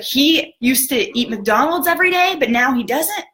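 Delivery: retold eager question; excited disbelief. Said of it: "just getting super excited".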